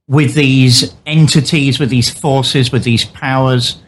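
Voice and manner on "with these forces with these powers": catching a choke on the words; choking. Real, not acted. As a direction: speak through a choking throat. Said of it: "I'm choking this afternoon".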